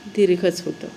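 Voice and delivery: ordinary talk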